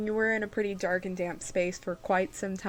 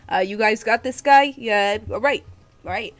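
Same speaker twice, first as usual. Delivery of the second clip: Wartor calling out; 3 semitones higher, 10 dB louder than usual. Acted. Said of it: "it's just like".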